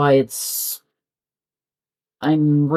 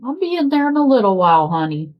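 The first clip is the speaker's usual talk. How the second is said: pet talk; 6 semitones higher, faster than usual. Real, not acted. Answering cat in pet voice.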